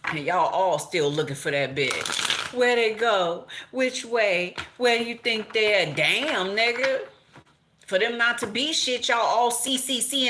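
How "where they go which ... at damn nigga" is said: mock search calling.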